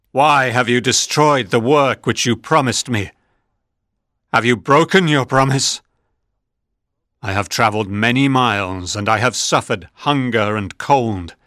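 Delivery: a wronged creature demanding answers, slowing at the end; angry monster. Acted. Monster confronts his creator.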